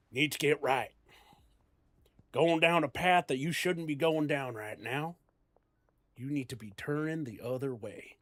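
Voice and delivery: lightly Southern warning; Southern grandpa. Shown as a demonstration. Grandpa warning son off bad path, light Southern accent. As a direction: warn him off the path like a Southern elder. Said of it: "I could go southern".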